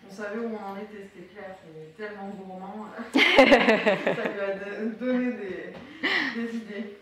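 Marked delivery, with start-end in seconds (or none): 3.0-7.0 laughing through the words. Real, not acted. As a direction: chuckle as you speak. (en riant)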